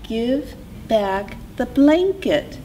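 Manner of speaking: high, small, measured bird voice; tiny voice. A narrator's reading. Hummingbird tells Coyote to return the blanket, tiny voice. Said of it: "said a tiny voice".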